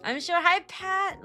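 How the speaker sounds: ordinary talk, nothing marked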